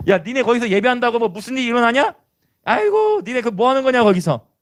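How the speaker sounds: high, scornful questioning; mocking jeer. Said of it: "사탄은 그래만 조롱하는".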